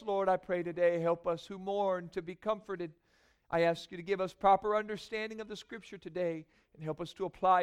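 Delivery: earnest spoken prayer to God. Real, not acted. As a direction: pray it humbly, from the heart. Pastor prays before the sermon.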